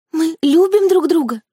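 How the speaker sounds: high, pleading protest; tearful protest. A narrator's reading. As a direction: insist on their love, almost crying. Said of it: "возражала девушка". (высокое жалобное возражение)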